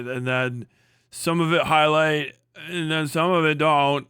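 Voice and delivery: a hint of a dopey movie character; dumb Idiocracy voice. Mocking the co-host in a mild dopey voice. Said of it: "you sound like the Idiocracy people".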